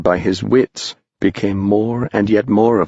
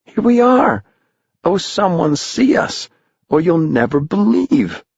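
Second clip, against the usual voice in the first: put-on very high, elated boys' voice; joyful calling; 7 semitones higher than usual. Boys flying over town to their families, high elated calls. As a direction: call down with wonder and joy. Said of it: "And thought".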